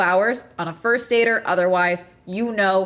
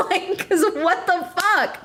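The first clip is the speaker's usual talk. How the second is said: high, laughing disbelief; laughing outrage; 7 semitones higher than usual. Real, not acted. Ranting at men who won't bring flowers, laughing disbelief. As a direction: laugh through the exasperation.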